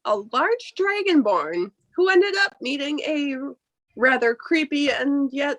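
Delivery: slow, measured storyteller; game master's slow recap; story recap narration. Acted. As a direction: recount the tale so far, unhurried.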